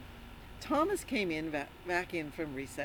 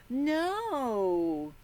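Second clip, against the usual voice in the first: a small shouted no, pitched up; defiant no; 6 semitones higher, 3 dB louder than usual. Pretend. Children shout Thomas's no at the teacher, defiant. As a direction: refuse like a stubborn kid. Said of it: "Let me hear ya".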